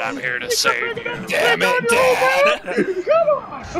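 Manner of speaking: high-pitched squeaky son voice. Pretend. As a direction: squeak it out like an excited kid. Voicing son wrestler, game.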